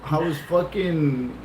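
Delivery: slow, soft, laughing admission; laughing confession. Retold or imitated. Confessing to Kathy about the stairs, slow laughing. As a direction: drag it out while laughing.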